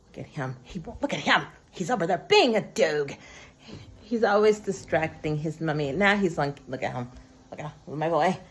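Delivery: low, doting murmur to a pet; pet talk. Real, not acted. Vlogger breaks off to dote on Paul, cooing pet talk.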